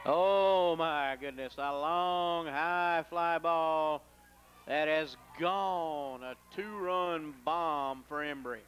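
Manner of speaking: rising excited shout that stretches the fly ball; home run call. Real, not acted. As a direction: let it build as the ball carries out. Radio play-by-play home run.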